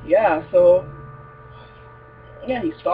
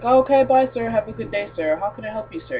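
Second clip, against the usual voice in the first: higher-pitched mock customer-service voice; polite shop worker; 5 semitones higher, 3 dB louder than usual. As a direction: imitate a store guy calling out pleasantries. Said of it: "the guy leave, and he's like".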